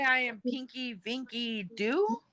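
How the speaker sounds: drawn-out words with a big rising end; slow, lilting joke introduction; playful mock introduction. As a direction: introduce yourself slowly in playful pretend.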